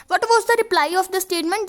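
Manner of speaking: slow, careful reading of the text line; slow dictation read. Shown as a demonstration. Teacher to students, reading the passage slowly. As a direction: read it out slowly for the class to copy.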